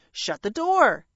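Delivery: firm, brisk parrot command; curt parrot order. Acted. Parrot telling the intruding dragon, curt order. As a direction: order it shut without fuss.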